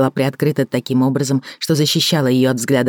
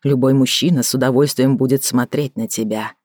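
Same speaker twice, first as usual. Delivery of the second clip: ordinary delivery, nothing marked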